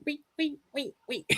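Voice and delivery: high soft squeaky wee sounds; tiny high squeals like a toy; squeaky dog-costume noises. Retold or imitated. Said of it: "the sounds he makes while wearing the dog costume".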